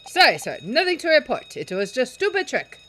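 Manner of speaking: sailor calling back. Acted. Sailor answers superior loudly.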